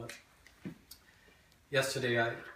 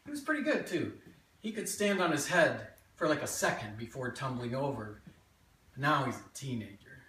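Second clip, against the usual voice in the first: lively memoir monologue with swinging pitch; animated childhood tale, present tense; stage storytelling; 4 semitones higher than usual. Acted. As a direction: tell it to a live audience as your younger self. Performs a written memoir monologue.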